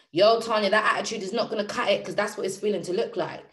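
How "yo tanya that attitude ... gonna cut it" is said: brisk telling-off; mild self-scolding. Acted. Speaker telling themselves off about attitude, brisk scolding. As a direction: pull yourself up sharply, quick and firm.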